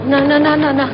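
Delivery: desperate denial. Acted. Mother hears her children taken.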